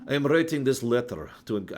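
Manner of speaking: reading a letter in a light put-on British accent; a faint stab at a British accent, cut off. Shown as a demonstration. Streamer reading Thatcher's letter, in a mild British accent. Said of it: "I shouldn't use that accent".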